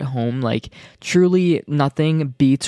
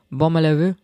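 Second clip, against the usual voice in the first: mock French accent; 2 semitones higher than usual. Shown as a demonstration. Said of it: "tried to speak in a French accent".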